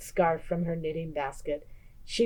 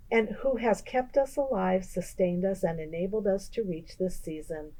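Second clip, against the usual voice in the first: reverent blessing; 7 dB quieter than usual. Acted. Baba Brena recites blessing.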